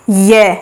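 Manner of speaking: "ये" drawn out with the tongue spreading inside; a held, isolated "ये"; tongue-position demo. Shown as a demonstration. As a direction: stretch "ये" to show the palatal glide. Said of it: "जैसे जीभ फैल रही हो अंदर ही अंदर".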